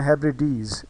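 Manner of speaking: हेब्रिडीज with weight on the final डीज; हेब्रिडीज stressed at its end; stress on final syllable. Shown as a demonstration. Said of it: "मैं डीज पे ज़्यादा ज़ोर".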